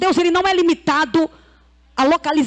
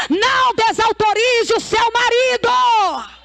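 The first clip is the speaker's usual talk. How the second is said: raised-pitch exhortation, driving on; fervent preaching; 6 semitones higher, 3 dB louder than usual. Real, not acted. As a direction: exhort the congregation, stretching out the final line. Preaches at full force. (pregação fervorosa, em tom mais agudo)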